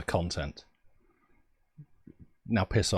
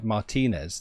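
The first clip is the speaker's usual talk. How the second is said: Martinez stressed mar-TEE-nez; British English emphasis. Shown as a demonstration. Streamer demonstrating the British-sounding version, middle syllable stressed. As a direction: put the weight on the middle of Martinez. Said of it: "the emphasis is a very, like, British English".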